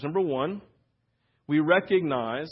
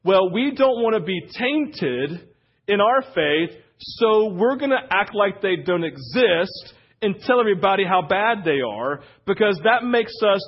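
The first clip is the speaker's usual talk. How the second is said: raised, earnest voice of smug religious folk; a hint of preachy piety; self-righteous Pharisees; 3 semitones higher, 4 dB louder than usual. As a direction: play the pious Pharisee keeping clear of sinners.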